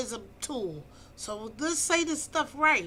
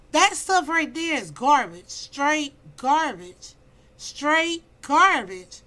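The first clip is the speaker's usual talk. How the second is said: louder, slow emphatic Straight garbage; disgusted; 7 dB louder, slower than usual. Real, not acted. Condemning men's pickup lines, loud and slow. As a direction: stamp each word down in contempt.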